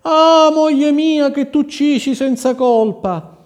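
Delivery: very high, loud grieving wail; anguished cry. Acted. King wailing over the wife he killed, anguished. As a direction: howl your guilt to the lost wife. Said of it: "cominciò a grida-, a gridare".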